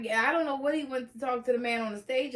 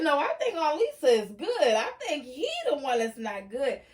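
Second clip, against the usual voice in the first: sassy reply. Retold or imitated. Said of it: "I said".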